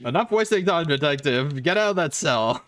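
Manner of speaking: mock cop scolding detective; stern cop partner. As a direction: order him out like a brisk cop. Detective partner bossing him.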